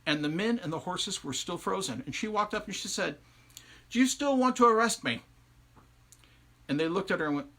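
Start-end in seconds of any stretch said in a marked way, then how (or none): 3.9-5.2 loud, high mocking challenge; loud teasing question from the witch; taunting witch. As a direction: taunt the frozen men loudly. Biddy taunts frozen soldiers.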